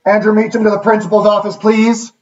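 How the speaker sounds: a hint of a school intercom voice; school PA announcement. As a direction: announce it like the office loudspeaker. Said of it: "it's broadcast through the entire building".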